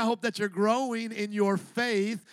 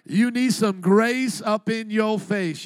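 grace up in your face pushed out loud and slow; louder, slower preaching repeat; 6 dB louder, slower than usual. Shown as a demonstration. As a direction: drive it home to the crowd, loud and slow. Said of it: "Everybody say".

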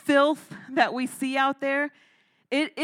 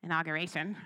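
disgusted groan; 6 semitones lower, 9 dB quieter, faster than usual. Retold or imitated. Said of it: "I'm like".

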